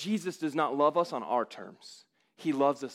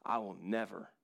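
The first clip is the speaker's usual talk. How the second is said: gentle Christ; 7 semitones lower, 12 dB quieter than usual. Acted. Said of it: "And Jesus replies".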